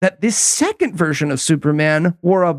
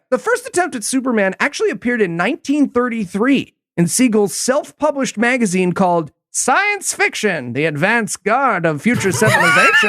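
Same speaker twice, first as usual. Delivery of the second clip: lightly voiced old-timey radio announcer; a hint of a 1930s newsreel read. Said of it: "A hundred percent old-timey radio voice".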